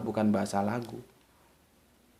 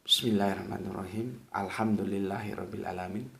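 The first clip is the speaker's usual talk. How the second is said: low, soft recitation like an imam; imam reciting softly; 7 semitones lower, 11 dB quieter than usual. Shown as a demonstration. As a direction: recite under the breath, lower. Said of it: "misalkan kita sholat maghrib".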